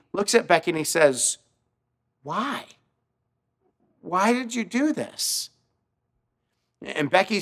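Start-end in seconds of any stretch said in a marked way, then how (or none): 2.2-5.5 hushed wonder. Retold or imitated. Moved garbage man asks why.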